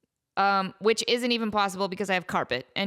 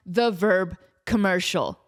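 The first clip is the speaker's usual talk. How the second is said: cracking voice, slow; 4 semitones lower than usual. Real, not acted. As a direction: voice breaks mid-phrase. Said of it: "Like my voice cracked".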